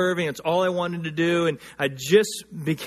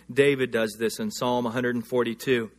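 normal talking voice

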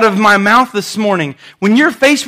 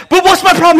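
client's whine; 9 semitones higher, 4 dB louder, faster than usual. Retold or imitated. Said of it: "he says".

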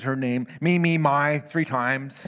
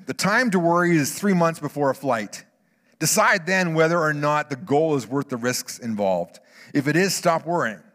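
louder, firmer reading of the quote; quoting Earhart; 3 semitones higher, 5 dB louder than usual. Retold or imitated. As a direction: read the quote out with conviction. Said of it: "Amelia Earhart had to say".

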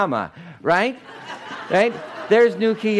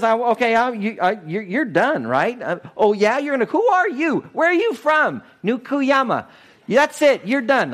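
sputtering, higher mock-angry king; mad king; 6 semitones higher than usual. King Ahab raging at Elijah, hammed-up anger. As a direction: splutter like an outraged ruler. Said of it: "Yeah, he's mad".

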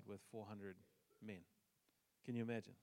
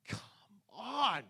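high, loud drawn-out groan of protest; mock protest; 9 semitones higher, 10 dB louder than usual. Pastor replaying his reply to wife, loud mock complaint. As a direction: whine it like a pouting kid. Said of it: "And I'm like".

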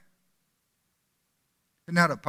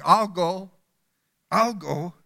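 eager cry; slower than usual. Acted.

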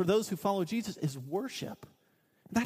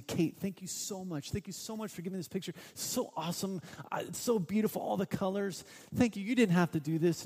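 tender, delighted dad; heartfelt thanks; 3 semitones higher than usual. Shown as a demonstration. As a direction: thank her like it's the best gift ever. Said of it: "Here's the same scenario, different".

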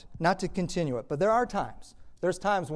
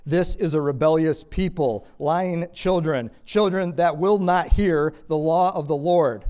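loud, slow, weighty proclamation; forceful, drawn-out pulpit reading; declaimed scripture; 3 semitones higher, 8 dB louder, slower than usual. Acted. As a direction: thunder it out as God's indictment. Preacher declaims God's words from scripture.

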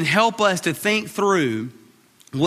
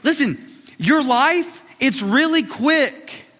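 voicing Paul; 6 semitones higher, slower than usual. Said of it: "He's saying".

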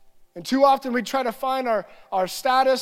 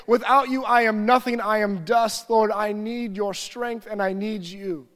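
worship prayer. Shown as a demonstration. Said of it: "I would just begin to worship".

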